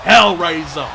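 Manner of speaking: booming wrestling announcer hype; ring announcer. Acted. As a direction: sell each name to the arena.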